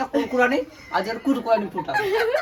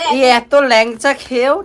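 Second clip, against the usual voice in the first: mouth burning from spicy food; 7 dB louder, slower than usual. Real, not acted. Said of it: "এত ঝাল বলে বোঝাতে পারবো না".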